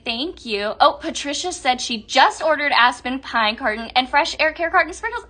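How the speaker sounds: ordinary talk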